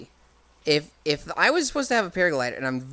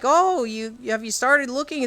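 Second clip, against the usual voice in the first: breezy fake-innocent question; sweet mock Impa; 7 semitones higher than usual. Impa floating down, higher and sing-song. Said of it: "just like".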